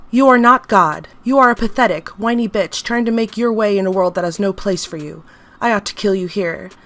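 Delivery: loud, contemptuous tirade; angry scolding; furious. Acted. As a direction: tear into the creature. Doctor berates the entity.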